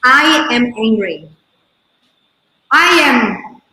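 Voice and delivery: slow, deliberate I am angry, weight on I; owning the anger. Shown as a demonstration. Owning her anger, she says it slowly and deliberately. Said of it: "the only difference to say".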